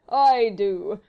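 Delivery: loud, pleased "I do"; a satisfied answer, savouring it. A narrator's reading. Blakeney agreeing, loudly satisfied. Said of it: "with a long sigh of satisfaction".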